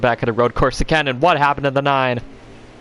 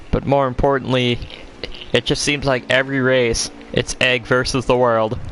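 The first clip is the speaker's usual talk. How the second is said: IMSA commentator. Pretend. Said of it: "I'm speaking like a imsa commentator".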